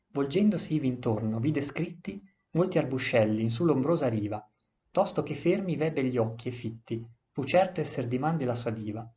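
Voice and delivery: put-on measured recital of old Italian verse; solemn epic recital; poem reading. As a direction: read the stanza like a poem, line by line. Reads the epic verse aloud.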